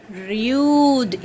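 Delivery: "Rude" drawn out to a clear D; long U in "Rude", then the D; final D sounded. Shown as a demonstration. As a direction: model "Rude" slowly, ending on D. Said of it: "It ends with D".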